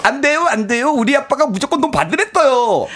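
put-on high lisping childish voice; cutesy baby talk. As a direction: pout like a small child. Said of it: "같이 혀 짧은 소리로".

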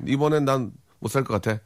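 last words jump way up in pitch; playful demand. Retold or imitated. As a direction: tease a friend into paying. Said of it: "대놓고 해버려요". (친구에게 장난스럽게 떼쓰듯)

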